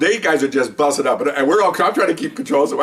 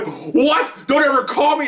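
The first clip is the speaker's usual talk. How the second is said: retold yell; 14 semitones higher, slower than usual. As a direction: play the furious colleague yelling into the phone. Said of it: "he's yelling".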